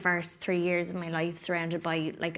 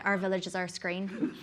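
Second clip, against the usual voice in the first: Northern Irish accent. Shown as a demonstration. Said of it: "north of Ireland".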